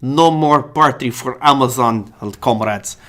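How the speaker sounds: slow, hammed-up Russian vampire count; mock Russian vampire pronouncement. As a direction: put on a Russian Count accent, drawn out. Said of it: "a Russian vampire voice".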